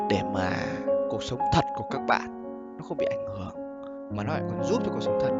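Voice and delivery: pillow talk. Real, not acted. Soft closing advice.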